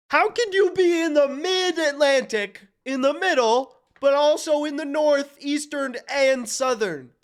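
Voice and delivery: high, loud incredulous complaint; loud, baffled rant at the screen; exasperated disbelief. Real, not acted. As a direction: demand how this could possibly make sense. Baffled by contradictory map categories.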